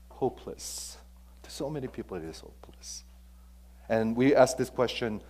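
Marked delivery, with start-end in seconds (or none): 0.1-3.0 soft breathy hopeless; hushed despair. Real, not acted. Preacher whispers the hopelessness people feel. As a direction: let the word sink into a whisper.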